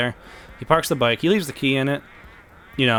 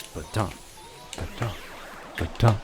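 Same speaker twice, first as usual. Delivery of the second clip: imitated coffin thuds; 2 semitones lower, 6 dB quieter than usual. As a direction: voice a thudding that starts soft and nears. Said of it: "And then he hears".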